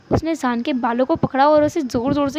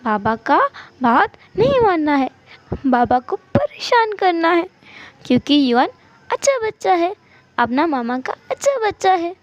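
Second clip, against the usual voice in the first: lightly voiced five-year-old; sing-song child insisting, rising in pitch; little child; 4 semitones higher than usual. Child boasting to mother about being good, childish. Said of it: "उस बच्चे ने कहा".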